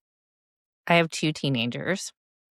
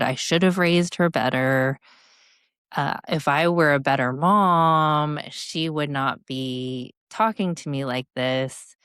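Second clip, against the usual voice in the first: inner critical voice. Retold or imitated. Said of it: "that was the voice in my head going off".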